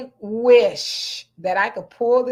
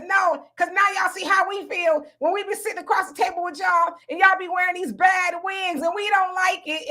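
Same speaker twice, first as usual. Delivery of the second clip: mock serious retort; 5 semitones higher than usual. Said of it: "he was dead serious".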